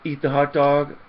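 a loud, barked order to eat the hot dog; mock shouted threat. Ranting vlogger mimics a thug's loud threat. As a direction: shout it like a thug making a threat.

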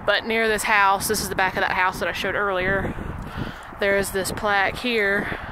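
talking out of breath after walking; breathless, words pushed out between breaths. Real, not acted. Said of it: "sorry, I'm out of breath".

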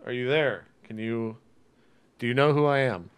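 calling out. Acted. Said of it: "I'm just like".

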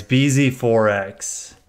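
slow, labored name; slow and deliberate. Shown as a demonstration. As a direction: spell out "B Z four X" slowly, letter by letter. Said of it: "That is such a hard thing to say".

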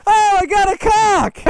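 high, slow, put-on gasp; over-the-top fake astonishment; mock shock. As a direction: ham up the surprise.

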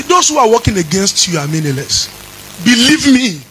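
singing preacher's chant over music; fervent preaching. Acted. Pastor stirs the congregation with a sung preaching chant. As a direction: preach it out, lifting each phrase.

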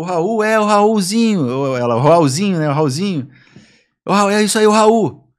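high, loud imitation of mum; hammed-up alarmed mother; mock frantic mother. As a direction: cry out the son's name in mock panic. Mother's frantic reaction, retold.

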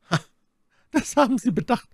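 mock the young officer with a scornful smile; contemptuous. A narrator's reading. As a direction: sneer at his scruples. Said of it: "verächtlich lächelnd".

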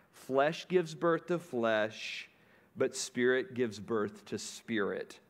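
slow, measured reading of the verse; solemn scripture reading. Acted. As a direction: lay each word down slowly.

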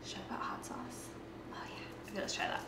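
hushed whisper to herself; whispered aside. Real, not acted. Aside to herself while deciding.

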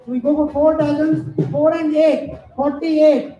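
calling out the numbers; sing-song number calls for the hall; bingo caller. Acted. Housie numbers called to players.

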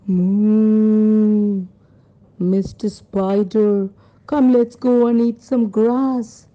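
a long moo, then a lightly voiced cow; a hint of a storybook cow. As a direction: moo it out, then coax the spider along. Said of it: "The cow said".

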